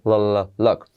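isolated L sounds leading into "look"; key-letter L. Shown as a demonstration. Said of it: "Letra clave L". (la L aislada y luego "look")

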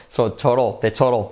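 "total" like Spanish "toro" plus dark L; tapped-T TOTAL. Shown as a demonstration. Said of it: "la T como una R". ("total" como "toro" con L)

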